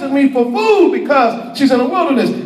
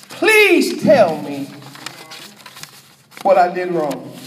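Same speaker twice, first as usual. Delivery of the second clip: Yah pleading; 8 semitones lower than usual. Acted. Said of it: "That's Yah talking".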